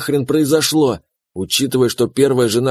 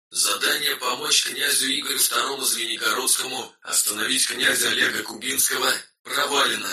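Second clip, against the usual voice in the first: quiet, detached game-system voice, much softer; system message; 9 dB quieter than usual. Acted. System message announces quest failure. (тихое бесстрастное системное сообщение)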